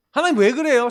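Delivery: protesting to God. Retold or imitated. Young believer arguing with God in hardship, protesting. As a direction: demand an answer, re-enacting your old grievance. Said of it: "막 그 따졌어".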